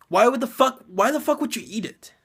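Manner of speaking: exasperated outburst. Retold or imitated. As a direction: yell at the screen in disbelief. Ranting at character eating food.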